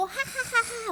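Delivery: acted high jeering ha-ha; mocking laugh. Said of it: "하고 비웃을 거야".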